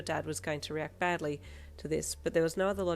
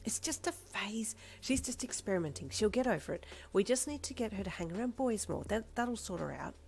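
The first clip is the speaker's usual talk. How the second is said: amused; 5 semitones higher than usual. Acted. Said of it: "your mum laughed".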